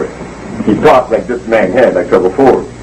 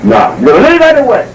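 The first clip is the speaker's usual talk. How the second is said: mock dismissal; 11 semitones higher than usual. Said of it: "she got the drift".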